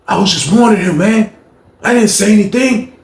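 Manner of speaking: lightly voiced, nervous denial; Rob excusing himself. Rob explaining himself to James, mildly defensive.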